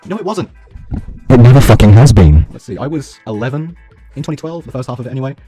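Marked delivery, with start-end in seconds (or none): none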